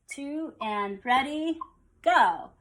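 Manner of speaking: cue them in on the beat; count-in. Shown as a demonstration. Teacher cueing students to count, slow measured count-in. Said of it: "we'll say it with the numbers".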